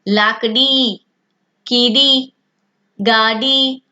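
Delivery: drawn-out final ी in लाकड़ी, कीड़ी, गाड़ी; word-by-word लाकड़ी, कीड़ी, गाड़ी with long i. Shown as a demonstration. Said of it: "इसका उच्चारण थोड़ा लंबा जाएगा".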